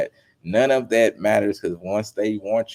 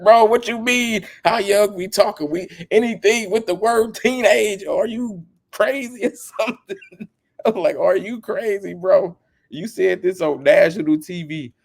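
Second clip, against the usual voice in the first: high, loud disbelieving rant; can't believe what he just heard; incredulous outburst; 11 semitones higher, 4 dB louder than usual. Retold or imitated. Reacting to an interview answer, high incredulous shouting.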